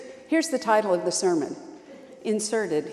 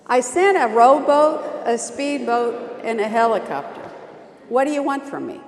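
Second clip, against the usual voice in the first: louder, exasperated retort; exasperated God; 2 semitones higher, 7 dB louder than usual. Acted. God answering the cranky man, exasperated and louder. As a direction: throw up your hands. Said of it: "And God says".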